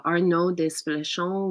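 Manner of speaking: light stab at a French accent; attempted French accent. Shown as a demonstration. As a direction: say the name with a hint of French. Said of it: "trying to have a French accent".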